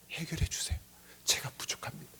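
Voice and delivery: hushed, whispered plea; confessing prayer. Acted. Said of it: "라고 고백하는 게".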